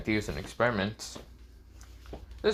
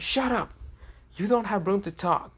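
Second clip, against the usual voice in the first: much higher flustered shout-down; high angry snap; 10 semitones higher than usual. Acted. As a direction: cut him off shrilly. Iza snapping at Aizen.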